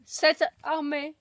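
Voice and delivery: loud, slow grand proclamation; pompous emperor. Acted. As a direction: declaim like a Roman emperor. Acting Roman emperor speech.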